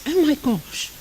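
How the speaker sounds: mock outrage from prim English passengers; fussy English passengers. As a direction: play a flustered passenger on the bus. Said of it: "the English people would start, you know, saying".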